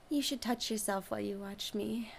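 soft unvoiced whisper; right in your ear. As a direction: breathe it into his ear. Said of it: "I whisper in your ear".

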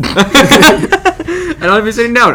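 high, drawn-out mimicry through laughter; mock their complaint in a slow, silly high voice; silly poo voice, laughing. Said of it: "I did that poo voice".

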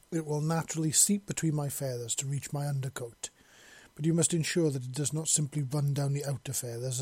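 imperious mistress giving instructions; a hint of haughty authority; lightly voiced bird mistress. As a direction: instruct a servant, firmly and precisely. Bird mistress instructs her servant.

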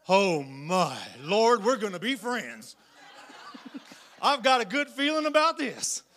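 mock nervous giggle; nervous laugh. Victim frightened of big bully.

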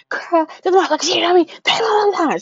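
put-on high, incredulous complaint to a girlfriend; retelling to her homegirl from the hospital, worked up and pitched high; exasperated outburst. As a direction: throw it up high like you can't believe it.

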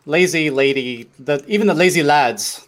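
jokey attempt at an Irish accent; hammed-up, poorly done Irish accent; bad Irish accent. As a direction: put on a clumsy Irish lilt for laughs. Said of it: "the worst Irish accent of all time".

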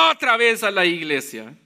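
low, mildly annoyed mock grumble; grumbling reluctance. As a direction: act out a grudging churchgoer, dropping in pitch. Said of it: "todo molesto, todo enojado". (refunfuño desganado, en voz baja y grave)

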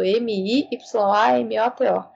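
Miyamoto spelt letter by letter; M I Y A M O T O said one letter at a time; spelling it out. Shown as a demonstration.

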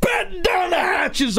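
high, slow pirate sea-captain voice; drawn-out hammy pirate order. Acted. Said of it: "Always to the pirate thing".

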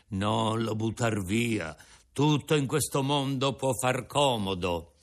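put-on an old father offering his breakfast; old Geppetto. Geppetto advises.

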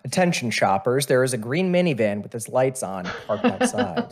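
over the intercom, like a store PA; fitness test announcer voice. Acted. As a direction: read it like a recorded test announcer. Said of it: "I put on my fitness Grand Pacer test voice".

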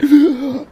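a sudden high, loud gasp; high sharp gasp. Acted. DM gasping as the vision ends. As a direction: gasp as if jolted awake. Party snapped back to table.

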